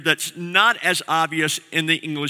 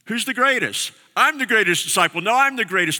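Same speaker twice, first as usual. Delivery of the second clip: put-on higher, childish squabbling boasts; mock bickering disciples; 5 semitones higher than usual. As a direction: play the disciples bragging over each other. Disciples bickering who's greatest.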